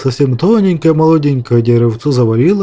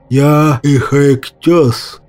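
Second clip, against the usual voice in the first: slow, honking goose announcement; cackling goose spirit; much slower than usual. Acted. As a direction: honk out your name like a goose. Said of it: "гоготнул гусь". (гоготнул, как гусь)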